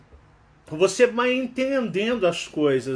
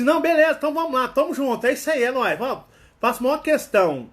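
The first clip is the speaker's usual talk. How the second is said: higher and louder, eager to help; eager mineiro; 5 semitones higher, 3 dB louder, faster than usual. Retold or imitated. Mineiro eagerly insisting to a friend, higher and louder. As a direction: gush a friendly yes to a friend. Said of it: "é tipo assim".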